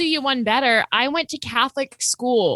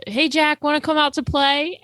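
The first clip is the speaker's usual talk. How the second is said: mock neighbor kid; 6 semitones higher than usual.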